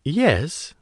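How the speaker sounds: put-on a Chinese officer answering coolly, Chinese accent; thick Chinese accent. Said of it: "her accent thick".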